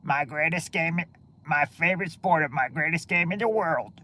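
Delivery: lightly voiced old-time ballplayer addressing a crowd; mild imitation of an old taped baseball speech; Babe Ruth. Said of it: "taping of Babe Ruth where".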